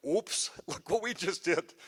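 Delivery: slow, amused admission of a mistake; laughing oops. Retold or imitated. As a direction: own the blunder with a laugh. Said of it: "we go".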